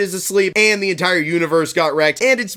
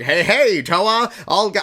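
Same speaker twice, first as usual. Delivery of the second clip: lightly voiced scheming plant creature; a hint of a sly villain plant; Karzani voice; 3 semitones higher than usual. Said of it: "I'm doing this voice for the Karzani".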